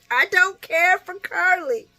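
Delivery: real hushed aside, breathy whisper. Real, not acted. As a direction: lean in and whisper it to the viewers.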